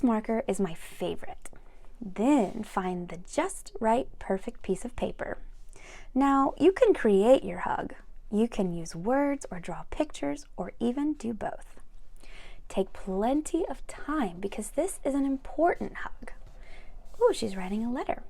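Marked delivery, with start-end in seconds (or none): 2.0-5.4 gentle unvoiced story whisper; whispered reading. 12.7-16.3 gentle unvoiced story whisper; whispered reading.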